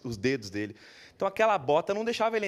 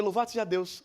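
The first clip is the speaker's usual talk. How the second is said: higher, fervent little exclamation of thanks; imitating the relieved mother; 5 semitones higher than usual. The relieved mother thanking God, lightly imitated. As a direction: mimic her grateful sigh to heaven. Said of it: "Do jeito dela foi".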